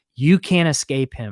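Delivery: ordinary delivery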